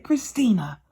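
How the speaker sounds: whispered name, falling; stunned whisper. Retold or imitated. Mother whispering her daughter's name in shock.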